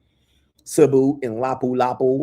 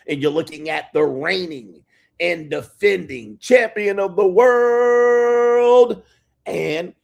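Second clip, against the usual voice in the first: drawn out, rising, much louder announcer call; ring announcer; 5 semitones higher, 4 dB louder, slower than usual. Acted. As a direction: stretch it like a boxing announcer. Hype intro of his titles.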